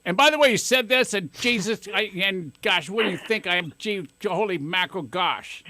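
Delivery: the wrong way to answer Jared, defensive; mock defensive outburst. Parent to son, mock huffy protest. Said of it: "don't give it back to him like".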